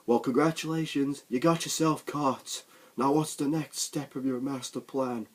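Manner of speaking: sarcastic agent taunting his prisoner, loud and sneering; mock smug agent. Retold sarcastic agent quote.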